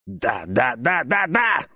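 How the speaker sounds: rising, breathless cry; breathless shout. A narrator's reading. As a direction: build the yes to a gasping shout. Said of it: "задыхаясь, выкрикнул Селен".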